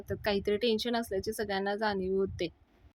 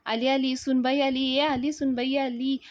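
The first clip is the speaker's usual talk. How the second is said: higher, louder delighted calling; joyful announcing; 4 semitones higher, 4 dB louder than usual. Retold or imitated. Anna announcing to guests the bride has come, delighted. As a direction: cheer the bride's arrival.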